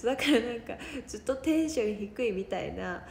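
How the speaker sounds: hoarse, dry throated voice. Real, not acted. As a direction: talk through a scratchy dry throat. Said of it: "喉カサカサだからさ". (喉がカサカサの声)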